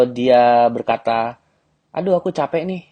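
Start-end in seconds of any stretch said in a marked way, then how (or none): 1.9-2.8 higher, whining tiredness; girl complaining she's tired, lightly voiced whine; mock tired girl.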